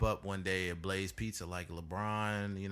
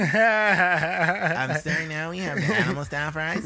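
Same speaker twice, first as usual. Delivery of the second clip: high, loud sing-song worker voice; mock drive-thru worker; 8 semitones higher, 8 dB louder, slower than usual. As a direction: play the snippy fast-food clerk.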